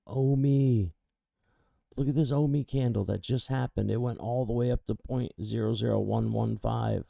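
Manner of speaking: real trader hype over a candle; excited. Real, not acted. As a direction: rattle it off thrilled. Shows spike to viewer excitedly.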